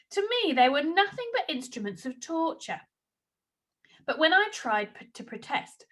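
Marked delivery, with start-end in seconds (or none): 4.9-5.9 voiceless, barely there; lost voice. A narrator's reading. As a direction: rasp it out with no voice. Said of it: "nothing would come out".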